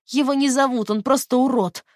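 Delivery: put-on high, loud angry little girl; childish angry yell; spiteful child voice. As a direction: spit it out like a nasty schoolkid. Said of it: "child voice under hypnosis".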